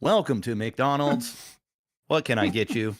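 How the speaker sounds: upsell like a drive-through robot; upselling cashier. Pretend. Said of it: "I fucking hope it sounds like that".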